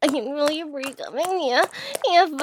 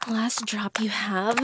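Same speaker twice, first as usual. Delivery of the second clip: whisper; 5 semitones lower, 6 dB quieter than usual. Acted. Whispered command in dominant role.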